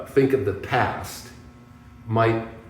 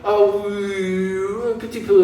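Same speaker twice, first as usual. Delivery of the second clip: much higher, bashful little French answer; modest reply; 11 semitones higher, 3 dB louder, much slower than usual. Retold or imitated. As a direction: play it small and shy. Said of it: "And I'm like".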